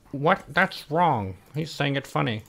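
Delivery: mock objection. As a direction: imitate indignant listeners calling out a mistake. Acting out listeners' objections.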